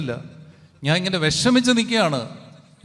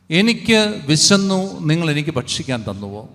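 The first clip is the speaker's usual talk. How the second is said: solemn voice of Christ; 3 dB louder than usual. Acted. Voicing Christ's words. (ക്രിസ്തുവിൻ്റെ ഗൗരവസ്വരം)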